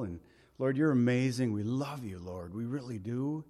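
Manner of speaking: earnest prayer, softening toward the end; congregational prayer. Acted. Pastor praying for the congregation, earnest and tender.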